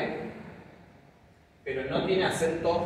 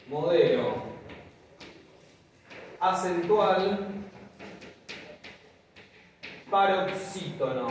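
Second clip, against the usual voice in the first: spaced out slowly for note taking; teacher dictating the term word by word; slow dictation; 3 semitones higher, slower than usual. Shown as a demonstration. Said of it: "pónganle así".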